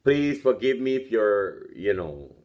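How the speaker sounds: toothless speech; lips over teeth. Real, not acted. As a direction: speak through gums, no teeth. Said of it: "talking to you with no teeth".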